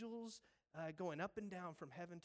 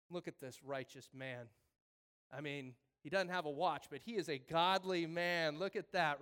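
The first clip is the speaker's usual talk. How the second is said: mock sermon praise; 3 semitones lower, 7 dB louder than usual. Pastor halting sermon for latecomer.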